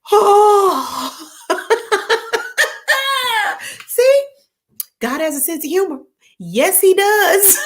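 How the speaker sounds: high laughing cry of disbelief. Real, not acted. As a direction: laugh it out, nearly crying. Laughing at her own plight.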